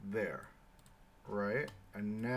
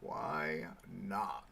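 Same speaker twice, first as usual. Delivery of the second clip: loud soapbox ranting; 4 dB louder, slower than usual. Acted. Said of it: "grand rhetorical answer".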